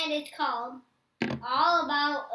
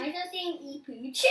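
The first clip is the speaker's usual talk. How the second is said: giggly mispronunciation. Real, not acted.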